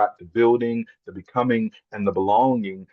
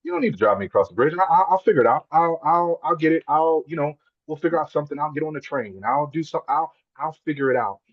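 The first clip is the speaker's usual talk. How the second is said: flustered protest; 5 semitones higher than usual. Retold or imitated. Retold protest to father-in-law.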